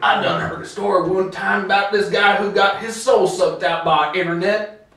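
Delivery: lightly put-on hillbilly voice; hillbilly accent. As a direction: yokel telling a tall tale. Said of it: "talking like a hillbilly".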